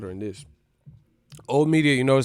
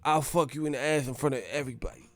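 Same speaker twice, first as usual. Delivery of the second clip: lightly mimicked angry boxer threat; understated menace in a borrowed voice; seething, only lightly acted; Mike Tyson; 5 dB quieter than usual. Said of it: "Let me stop this impersonation".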